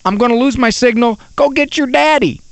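urgent pleading. Retold or imitated. Uncle Ron on a cell phone to the daughter, mock urgent. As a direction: try to break into a child's chatter. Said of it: "I can hear Uncle Ron saying".

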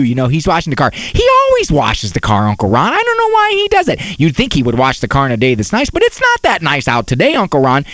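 lightly imitated child rattling on; chattering little girl. Daughter keeping Uncle Ron on the phone, imitated little-girl chatter. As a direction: run on without a break, pitch swooping. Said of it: "when the eight-year-old girl answers the phone".

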